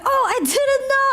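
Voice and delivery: high-pitched retold astonishment; exaggerated high "oh" of realization; mock surprise. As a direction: act out being taken aback. Retold chef learns the meaning.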